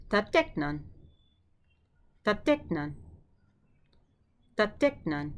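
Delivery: Tateknan, said clearly with a falling tune; Greek word modelled. Shown as a demonstration. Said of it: "Your turn".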